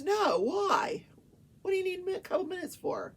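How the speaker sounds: high, loud, indignant challenge; retold irritated judge. Judge refusing the defense lawyer a break, mock irritated. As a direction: imitate an exasperated judge demanding a reason.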